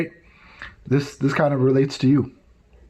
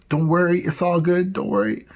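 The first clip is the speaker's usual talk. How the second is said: casual reassurance; 3 semitones higher than usual. Retold or imitated. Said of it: "just smiling, just casually".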